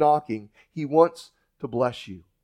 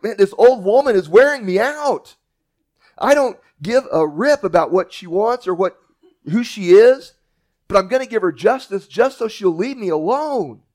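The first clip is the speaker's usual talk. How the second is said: exasperated judge; 5 semitones higher, 5 dB louder than usual. Acted. Judge's exasperated inner monologue.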